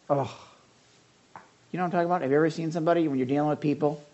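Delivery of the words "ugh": demo groan. Shown as a demonstration. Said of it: "To sigh or to groan".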